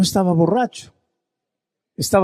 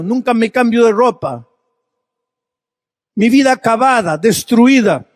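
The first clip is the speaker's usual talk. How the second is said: raised, higher preacher's voice pressing each line; preaching at full force; 7 semitones higher than usual. Acted. Pastor preaching a drunk's thirty lost years to the congregation, raised fervor. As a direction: pour the man's ruin out over the crowd, rising.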